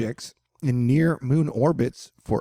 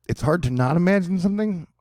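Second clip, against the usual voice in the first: higher, puzzled echo of the line; incredulous read-back, pitched up; baffled questioning; 5 semitones higher than usual. Real, not acted. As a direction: question the wording as if it makes no sense. Questions the sentence just read.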